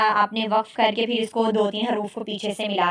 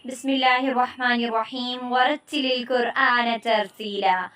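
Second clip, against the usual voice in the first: recitation; slower than usual. Acted. Recites Quran verse opening lesson.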